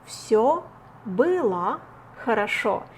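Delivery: было said as "byla", final о as а; unstressed о as а. Shown as a demonstration. Teacher demonstrating reduction for learners, carefully. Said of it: "pronounced like а".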